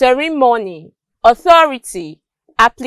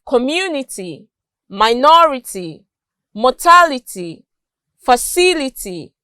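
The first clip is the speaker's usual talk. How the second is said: "community, minority, mortality, facility", each stressed on the second syllable. Shown as a demonstration. Teacher illustrating the T Y rule, "community, minority, mortality, facility" stressed second. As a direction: lean on MU, NOR, TAL, CIL in "community, minority, mortality, facility". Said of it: "stressed on their second syllable".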